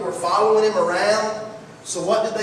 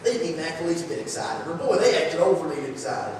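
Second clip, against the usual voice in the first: mocking critics; 4 semitones lower, 4 dB quieter than usual. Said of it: "mock moments".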